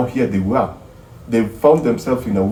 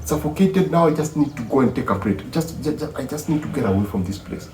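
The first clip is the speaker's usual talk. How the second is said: much higher voice that softens and fades; voicing the girlfriend; 6 semitones higher than usual. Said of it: "she goes like".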